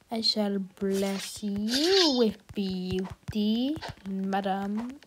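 slow, soft, lordly blessing voice; hammed-up royal blessing; mock grand blessing. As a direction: bestow it like a fairy godmother, slowly.

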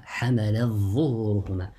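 حملت with no t heard, merged into ظهورهما; idgham. Shown as a demonstration. Teacher repeats Warsh's reading for students, idgham. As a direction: double the ظ of ظهورهما, swallowing the ت of حملت. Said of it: "He recited with الإدغام".

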